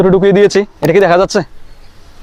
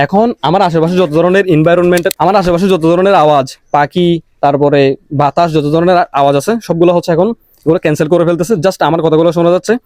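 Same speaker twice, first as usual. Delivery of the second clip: noise cancellation. Real, not acted. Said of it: "noise cancellation mode on হয়ে গিয়েছে".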